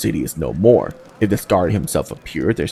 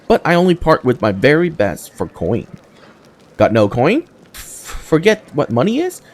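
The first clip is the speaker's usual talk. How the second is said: brash cave trader; 3 semitones higher than usual. Acted. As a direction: call out to the newcomer like an eager hawker. GM voices Dyra the trader.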